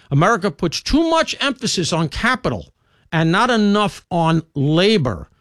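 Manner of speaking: lightly voiced Jon Stewart rant, slowing on the last words; mock Jon Stewart. Host mocking Jon Stewart's rant, lightly imitated. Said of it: "who's ranting and raving yesterday".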